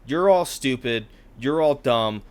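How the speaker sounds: loud mock rant, jabbing at the insults; mock angry scolding. Cranky monk scolds his chuckling fellow monks, mock angry. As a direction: play a scornful old monk telling people off, hammed up.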